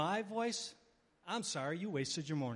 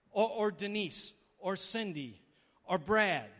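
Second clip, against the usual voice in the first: names rung out loud and slow; calling out names; 6 dB louder, slower than usual. Pretend. Preacher proclaiming congregants' names in heaven, loud and slow. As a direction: call each name out like a roll of honor.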